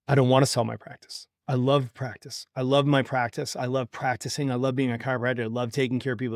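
retold, softly held-back emotion; subdued, as if mildly choked up; choking back tears. Doctor confessing love for his practice, choking back tears. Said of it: "this guy's just choking back the tears".

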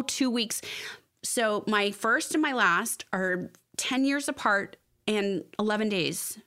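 slow, whispered through tears; tearful whisper. Real, not acted. Mother recalling her children's birthdays, whispered and tearful. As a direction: barely get it out. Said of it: "I'm gonna start crying".

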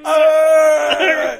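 a high loud hammed-up cry; mock pained yell. Co-host mocks the stabbed hero with a high loud cry. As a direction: wail like a stabbed man, overdone. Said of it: "he's like".

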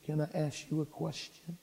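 very soft imitation of a child; imitated small child, barely audible; little girl's timid question. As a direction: ask in a tiny, hushed voice.

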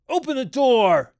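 loud, high shouted demand; crying out. A narrator's reading. Father trying the knob, crying out. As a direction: shout it through a locked door. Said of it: "cried George Hadley".

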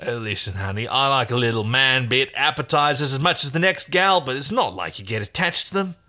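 brash stallkeeper, lightly Australian prospector. Acted. Stallkeeper offers Aaron money for Crichton, brash Australian prospector. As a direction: haggle like an old Australian prospector. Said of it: "an Australian prospector".

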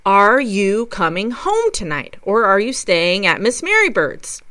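an impatient mother, lightly voiced, asking again. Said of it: "repeats herself more sternly".

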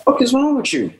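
high startled yell; shouting. Acted. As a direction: yell it, jolted awake. Woken partner snaps at her.

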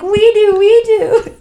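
high, loud eager chorus of fans. Retold or imitated. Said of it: "And everyone's like".

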